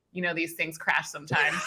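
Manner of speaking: lightly acted low, soft aside; ominous seatmate. Passenger to nervous flier, lightly ominous and offhand.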